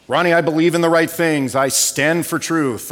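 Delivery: put-on old-time radio announcer voice, quick; mock newsreel announcer delivery; 1950s radio announcer. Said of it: "I got a nineteen fifties radio announcer voice".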